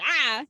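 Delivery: imitated lunging "Ah!"; mock attack cry. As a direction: cry out like a creature pouncing. Imitates Crocodile Loki lunging in retelling.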